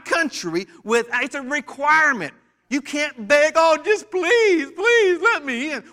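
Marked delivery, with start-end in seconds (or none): 3.5-5.8 high, slow, whiny plea, hammed-up; mock begging. Preacher mimics a traveller begging at the border, high and pleading. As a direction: put on a pitiful pleading voice.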